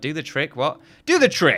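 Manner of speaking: excited voice jumping all over the place. Reacting to own words while building, excited, voice all over the place. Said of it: "My voice is going all over the place".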